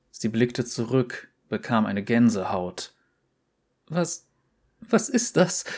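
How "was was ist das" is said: hoch und zitternd vor Angst; bebende Stimme. Acted. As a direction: frag voller Schrecken. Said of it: "mit bebender Stimme". (zitternd vor Angst)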